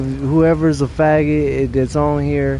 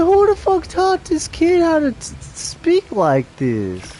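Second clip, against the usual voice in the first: incredulous outburst; 12 semitones higher than usual. Retold or imitated. Stunned reaction to kid's talk.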